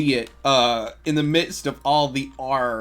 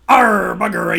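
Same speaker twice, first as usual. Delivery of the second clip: pirate grumble breaking into laughter, louder; laughing pirate curse; 7 semitones higher, 12 dB louder than usual. Acted. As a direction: curse like a pirate while cracking up. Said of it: "I was too piratey".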